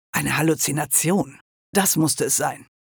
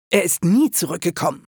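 indignant confirmation with "nie" punched; stress on "nie". A narrator's reading. Merlin indignantly confirms the guess. ("nie" empört betont)

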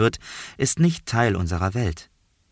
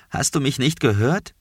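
higher, shaky voice; 6 semitones higher than usual. Acted. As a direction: ask again with a shaky voice. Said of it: "mit zittriger Stimme".

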